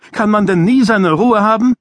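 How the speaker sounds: put-on a spoiled kid demanding to be left alone; whiny boy's complaint. A narrator's reading. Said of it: "rief Ira".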